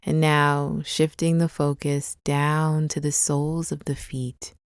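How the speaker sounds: calm, unhurried meditation guide with long pauses; guided meditation. Acted. Guide leading listeners through a body scan, calm guided meditation. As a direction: ease them gently into the body, leaving space between phrases.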